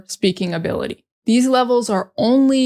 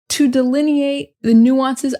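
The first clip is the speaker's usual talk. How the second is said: mock baffled; 4 semitones higher than usual. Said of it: "I don't even know what that means".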